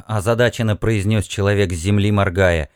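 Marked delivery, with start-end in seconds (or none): none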